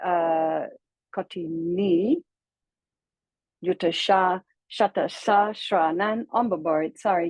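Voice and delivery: each mantra word set apart with a pause; slow word-by-word demo. Shown as a demonstration. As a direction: read the mantra word by word for learners. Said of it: "totally pure light mantra".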